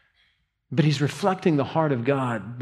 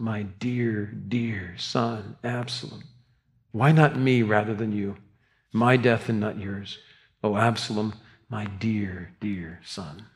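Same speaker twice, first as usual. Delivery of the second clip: mournful lament; slower than usual. Retold or imitated. King weeping for his son, slow hushed grief. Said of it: "he cried out".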